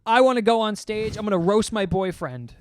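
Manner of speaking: a tipsy patron begging for the mic; drunk woman. Retold or imitated. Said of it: "She's like".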